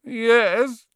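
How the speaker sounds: a touch miserable, high and small. A narrator's reading. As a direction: sound a little crushed. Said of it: "said the boy miserably".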